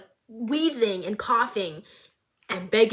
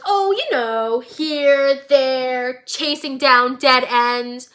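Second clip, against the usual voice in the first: louder, sing-song teasing; playful Jinx voice; 6 dB louder, much slower than usual. Retold or imitated. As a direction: toy with him, unhinged cheer.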